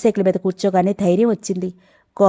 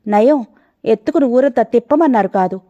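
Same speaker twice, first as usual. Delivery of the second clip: angry retort; 3 semitones higher than usual. Acted. Man annoyed by the girl's request, angry sarcastic retort. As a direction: snap back at her with sarcasm. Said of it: "కోపంగా అన్నాడు".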